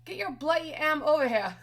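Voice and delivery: put-on Nikki's British accent. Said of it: "I got Nikki".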